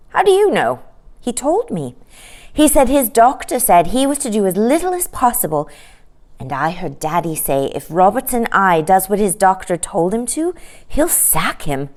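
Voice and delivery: put-on a small girl passing on gossip; knowing little girl. Sister tells brother what Daddy said, lightly girlish. Jane answers Michael.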